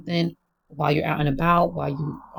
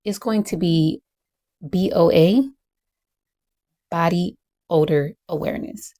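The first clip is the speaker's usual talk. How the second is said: teacher voice. Acted. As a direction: announce it like a teacher to her class. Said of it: "So I'm going to use my teacher voice".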